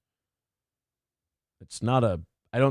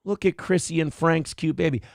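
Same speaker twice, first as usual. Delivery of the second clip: put-on baby voice. Shown as a demonstration. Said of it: "that's the voice you use for a baby".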